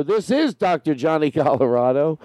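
tentative radio host introduction, stress on IS; lightly put-on host sign-on; trying out a character. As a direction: introduce yourself as a late-night host. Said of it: "I think I'm in a character".

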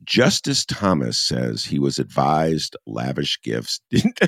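cracking up mid-headline; trying not to laugh. Real, not acted. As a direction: straight read breaking into laughter. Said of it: "I'm sorry, I couldn't do it".

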